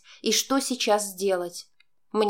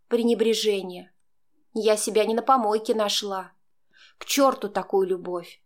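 usual speaking voice

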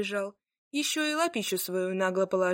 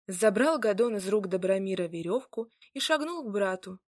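ordinary delivery, nothing marked

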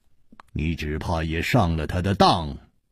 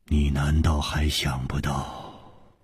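word by word; 5 semitones lower than usual. Acted. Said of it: "一字字的说".

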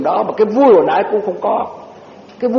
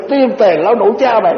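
mock angry curse; 3 semitones higher than usual. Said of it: "bà giận quá, bà chửi".

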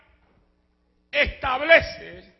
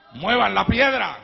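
shouted command; 4 semitones lower, 3 dB louder than usual. Acted. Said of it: "él dice".

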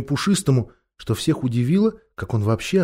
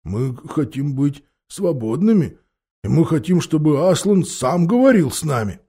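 put-on old bear voice; 4 semitones higher than usual. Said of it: "старый медведь".

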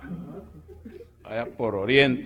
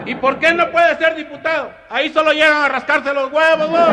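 high country bumpkin voice; 8 dB louder than usual. Acted. Comedian voicing a man from eastern Guatemala gossiping to his friend, very high and loud.

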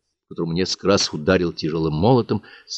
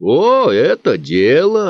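higher, louder, slow delighted exclaim; perking up; 9 semitones higher, 5 dB louder, much slower than usual. Acted. Bookkeeper perks up at the teacher's idea, delighted. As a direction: bookkeeper suddenly eager. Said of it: "оживился счетовод".

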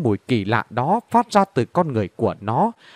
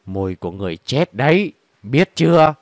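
rít qua kẽ răng. Acted. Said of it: "Những lời nói toát ra từ hai kẽ răng nghe rìn rít".

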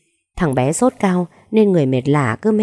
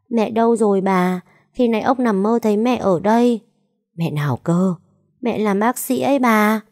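put-on sick little boy; 5 semitones higher than usual. Sick child asks for mother.

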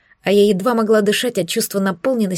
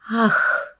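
breathy moan. A narrator's reading. Narrated climax moan.

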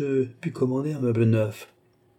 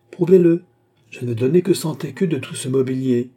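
ordre sec et nettement plus fort, voix haute; avec autorité; 3 semitones higher, 6 dB louder than usual. Acted. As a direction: trancher en comtesse qui ne discute plus. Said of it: "avec une telle autorité". (la comtesse impose son prix au marchand, avec autorité)

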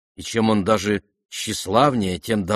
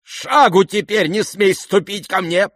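much higher, louder, slow furious command; pale with rage; 10 semitones higher, 5 dB louder than usual. Acted. Lizaveta forbidding the prince her house, furious. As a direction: banish him in white fury. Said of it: "вскочила ... побледнев от гнева".

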